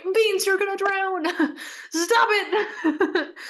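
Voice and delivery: high, drawn-out plea breaking into laughter; hammed-up alarm with giggles; mock panic.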